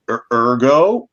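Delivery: ergo drawn out x0.6, /ə˞ɡoʊ/; slow careful ergo. Shown as a demonstration. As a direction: spell out Er, ergo slowly. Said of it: "here we go".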